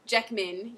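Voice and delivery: "Jackman" said as "Jeckman"; Australian A. Shown as a demonstration. Tutor correcting the actor's surname, Australian eh vowel. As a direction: turn the A in "Jackman" to eh. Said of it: "You don't say Hugh Jackman".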